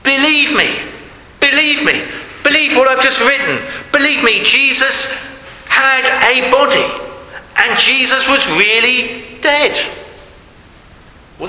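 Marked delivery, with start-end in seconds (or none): 0.0-9.8 insistent pleading. Retold or imitated. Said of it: "it's claimed he's saying".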